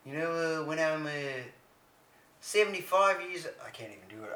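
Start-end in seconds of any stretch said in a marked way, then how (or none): 2.4-3.5 higher-pitched, faltering Canadian accent; attempted Canadian accent. Shown as a demonstration. Co-host failing at a Canadian accent, pitched up. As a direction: have a weak go at a Canadian accent. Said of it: "I can't even do Canadian accent".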